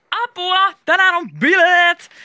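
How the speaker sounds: high, loud party yell; frantic, drawn-out excited cry; panicked shout. A narrator's reading. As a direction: scream it while dashing around. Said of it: "Krista huusi".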